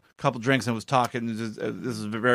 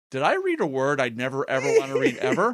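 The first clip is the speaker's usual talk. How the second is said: horrified disbelief. Retold or imitated. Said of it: "I'm like".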